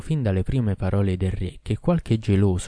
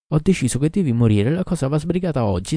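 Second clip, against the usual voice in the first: louder, higher, final royal verdict; curt decree; 6 semitones higher, 5 dB louder than usual. A narrator's reading. King cutting off the doctor's pleading, louder curt decree. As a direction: slam the sentence down.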